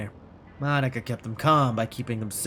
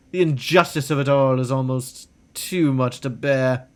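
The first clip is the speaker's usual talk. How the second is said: melodramatic lament. Acted. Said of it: "So dramatic".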